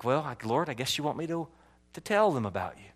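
soft, hesitant mumble to the Lord; reluctant prayer. Retold or imitated. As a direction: give in quietly, haltingly. Reluctant prayer after deep breath.

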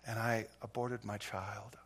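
hushed whispered admission, very soft; whispered confession. Retold or imitated. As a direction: whisper it like a shameful secret.

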